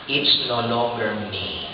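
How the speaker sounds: slow, quiet and settled; calm firm reply. Acted. The Christian calmly answers his old lover.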